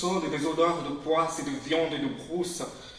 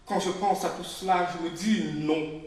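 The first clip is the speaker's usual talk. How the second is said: louder refrain; 2 semitones higher, 5 dB louder than usual. Acted. Speaker recalling discrimination, louder and more urgent. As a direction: push the refrain harder. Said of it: "repeated refrain".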